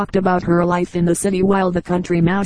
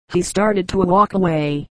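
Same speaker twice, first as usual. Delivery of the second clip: ordinary delivery, nothing marked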